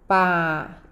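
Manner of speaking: low, spaced pa... i... chão; sound by sound. Shown as a demonstration. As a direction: hold each piece of "pa-i-chão" apart. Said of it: "Ó".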